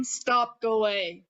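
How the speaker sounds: grounded chest voice, low and sure. Shown as a demonstration. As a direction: say it from the belly, calm and firm. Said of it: "low, grounded voice".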